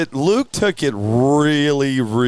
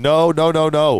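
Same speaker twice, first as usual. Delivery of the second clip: slightly raised, repeated refusal; insistent denial; 3 semitones higher, 4 dB louder than usual. Retold or imitated. Friend hearing the truck was dropped, insistent denial. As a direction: reenact refusing to believe bad news. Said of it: "I kept saying".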